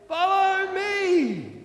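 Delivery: slow, loud, drawn-out leader's call; slow Mister T call. Acted. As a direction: stretch each word like a wise old guide. Mister T leads the cars.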